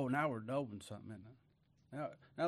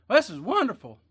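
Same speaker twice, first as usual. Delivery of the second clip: high, loud exclamation of wonder; thankful cry; 8 semitones higher, 12 dB louder than usual. Acted. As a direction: cry out your thanks, pitched way up. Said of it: "We either cry thanking him".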